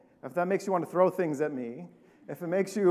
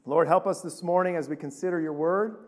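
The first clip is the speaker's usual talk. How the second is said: lower, unhurried pastoral prayer; spoken prayer; 4 semitones lower, 3 dB quieter than usual. Real, not acted. Pastor asks the Lord to help the congregation, prayerful. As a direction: pray aloud in a lowered voice.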